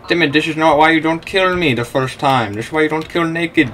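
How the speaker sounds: loud, mocking telling-off of a rival; shouted lesson at the enemy player; scolding shout. Real, not acted. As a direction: lecture him loudly like a fed-up parent.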